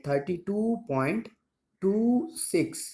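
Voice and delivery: "टू six" after the point said as two single digits; digits read separately. Shown as a demonstration. Teacher models reading a decimal digit by digit. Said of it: "इस तरह से पढ़ेंगे".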